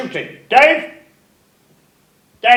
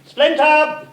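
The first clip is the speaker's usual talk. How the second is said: calling out; 6 semitones higher, slower than usual. Real, not acted. Director calling the writer over.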